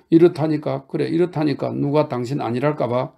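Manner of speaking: high, loud exasperated cry; exasperated shout. Acted. Grushenka shouting at Mitya as he bursts into tears, exasperated. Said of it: "그루셴카가 소리를 질렀다".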